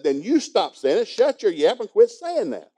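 a father mock-angry at his daughter; mock anger. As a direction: snap back at her, half-joking. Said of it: "So finally I got mad".

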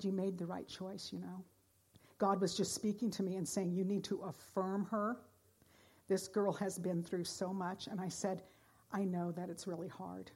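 soft, gentle reassurance; tender comfort. Retold or imitated. Preacher retelling comforting the crying assistant, softly. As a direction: speak softly as if holding her hands.

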